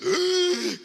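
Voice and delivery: loud, high imitated gasp; big acted gasp; huge gasp for air. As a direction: gulp air as if surfacing from underwater. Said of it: "came up with the biggest".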